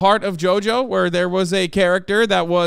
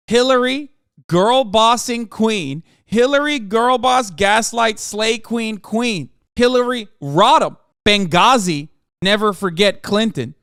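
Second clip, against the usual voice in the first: mock girl boss cheer; 3 semitones higher, 3 dB louder, slower than usual. Mock fan chant for Hillary.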